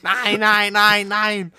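mock indignation. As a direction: pretend to be shocked and righteous.

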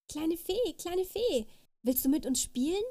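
high, eager little rabbit voices; rabbit children calling. A narrator's reading. Rabbit children inviting the fairy to play, calling. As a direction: call up excitedly in a high child-like voice. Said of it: "riefen die vielen Kaninchenkinder".

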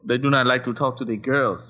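put-on Nigerian accent; light West African accent. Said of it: "That was my African accent".

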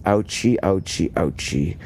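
a childish mock ouchie, fading down; silly stand-in for a curse; lightly voiced mock swearing; mock oath. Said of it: "And he denied him with an oath".

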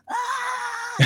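put-on high excited squeal of a little boy; excited kid yell. Imitating son's excited shout at first snow. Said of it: "He was, like, all excited".

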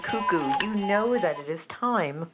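measured show-opening announcement; host's formal welcome over music; show announcer intro. Acted. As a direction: open a cabaret show, drawing out the first word. Opens the show.

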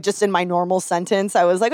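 ordinary talk, nothing marked

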